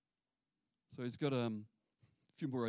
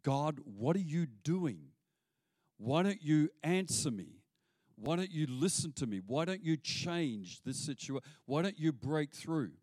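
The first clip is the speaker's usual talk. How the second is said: pleading prophet. Retold or imitated. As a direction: beg God to answer you. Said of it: "confused, frustrated".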